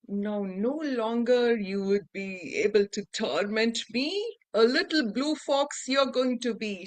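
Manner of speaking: a hint of a wicked fairy casting a curse; contrary fairy curse. Contrary fairy cursing the prince into a fox. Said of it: "she said".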